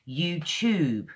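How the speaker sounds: "YouTube" as "you-choob", drawn out. Shown as a demonstration. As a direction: put a clear ch in the middle of "YouTube". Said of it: "is a ch sound".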